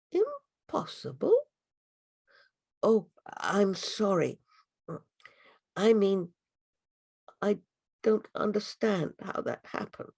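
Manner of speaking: a high mock-surprised impossible; a butterfly feigning surprise to the girl; teasing butterfly. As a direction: play innocent. Morpho mocks mild surprise.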